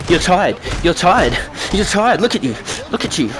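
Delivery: taunting. Real, not acted. Taunting the opponent mid-fight.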